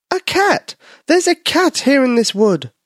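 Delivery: high, squeaky little mouse in a panic; frightened mouse voice. Acted. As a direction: play a tiny scared mouse blurting out news.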